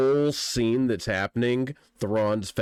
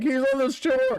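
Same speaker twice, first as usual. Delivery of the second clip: mimicking the game master; 12 semitones higher, 3 dB louder than usual. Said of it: "you're just like".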